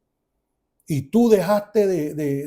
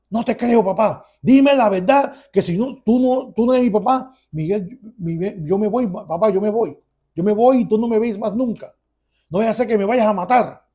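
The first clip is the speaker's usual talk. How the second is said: higher, heated demand for the truth; upset confrontation; 4 semitones higher, 4 dB louder than usual. Retold or imitated. Son threatens father he will leave, upset. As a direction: press him, agitated.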